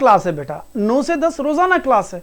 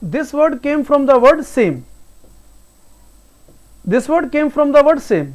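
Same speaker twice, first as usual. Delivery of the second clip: slow dictation; much slower than usual. Shown as a demonstration. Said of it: "repeats slowly for students".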